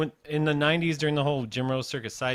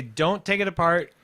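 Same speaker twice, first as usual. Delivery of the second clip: raised, higher scolding voice; retold parental warning; 5 semitones higher, 3 dB louder than usual. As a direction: lecture a kid, retold.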